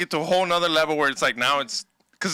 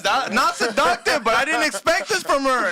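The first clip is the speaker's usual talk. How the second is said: put-on man doing a higher girl voice; 8 semitones higher than usual. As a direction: voice the intern as a girl. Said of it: "That's my girl voice".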